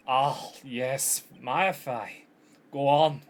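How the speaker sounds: wobbly mock-Scottish lawyer voice; broad, badly faked Scottish accent; failed Scottish. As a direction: attempt Scottish and miss it. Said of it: "I don't think that's Scottish anymore".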